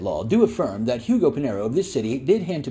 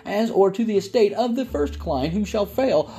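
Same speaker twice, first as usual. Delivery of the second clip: lightly raised, formal legal reading; notary reading; 6 semitones higher than usual. Acted. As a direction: read it like a notary. Legal notice read out.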